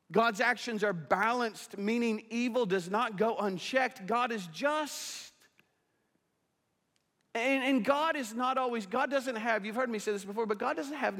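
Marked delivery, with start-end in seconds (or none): 0.1-9.3 high, emphatic sermon delivery; impassioned preaching. Real, not acted. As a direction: drive the warning home from the pulpit. Preaches at raised force.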